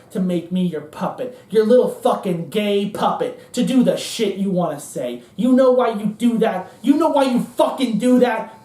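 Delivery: lightly voiced ranting accuser, swelling in bursts; Cohn. Cohn accusing the playwrights of using him, bitter rant. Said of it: "And Cohn says".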